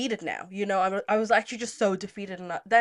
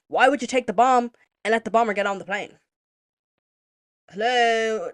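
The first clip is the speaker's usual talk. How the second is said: louder, exasperated disbelief; incredulous challenge; 8 dB louder than usual. Retold or imitated. Traveller arguing with security, incredulous. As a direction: challenge them like it's blindingly obvious. Acted argument with airport security.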